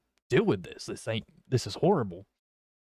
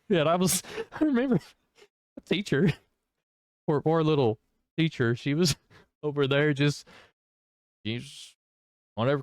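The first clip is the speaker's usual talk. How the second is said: high, laughing through the words; giggling while telling the story; amused, laughing the memory out; real laughter; 4 semitones higher than usual. Real, not acted. Laughing while recalling poor teacher.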